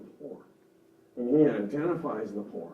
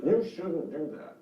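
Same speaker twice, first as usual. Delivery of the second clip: a touch of scolding parent, pitched up and slow; slow, mildly reproving parent voice; authoritative parent; 4 semitones higher, slower than usual. Acted. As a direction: lightly play a judgmental parent. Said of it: "Parent voice would be authoritative".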